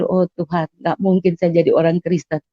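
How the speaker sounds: soft, subdued thinking to oneself; retold inner thought. Patient thinking to God, quiet inner voice. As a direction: say it softly, as a private thought. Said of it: "Saya udah pikir".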